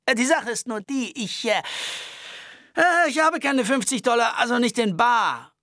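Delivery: high-pitched nervous Albert voice. Acted. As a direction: complain fussily and fast. Albert stammers excuses.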